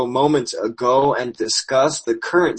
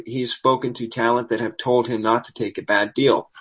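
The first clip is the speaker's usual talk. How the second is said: hoarse, worn-out voice; losing voice. Real, not acted. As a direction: speak with a failing voice. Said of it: "I know I am losing my voice here".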